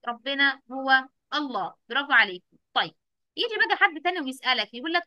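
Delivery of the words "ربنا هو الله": slow, deliberate answer; slow model answer. Shown as a demonstration. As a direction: spell it out slowly for the children. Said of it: "أنا بسرعة كده أجري وأقول له". (ببطء وبوضوح)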